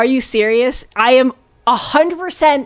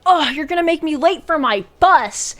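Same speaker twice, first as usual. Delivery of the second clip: complaining lady; 6 semitones higher than usual. Retold or imitated. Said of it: "she's like".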